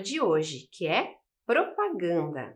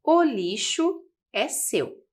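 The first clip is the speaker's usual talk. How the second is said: slow, louder read of the slogan; reading the poster; 3 semitones higher, 4 dB louder, slower than usual. Shown as a demonstration.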